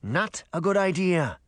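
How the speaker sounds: mild warning from a grumpy fish. Acted. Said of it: "the fish warned".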